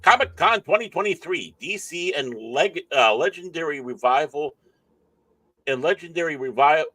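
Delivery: lifted, emphatic headline reading; halting news-headline read; article read-aloud. Real, not acted. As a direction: read out the headline, stumbling and restarting.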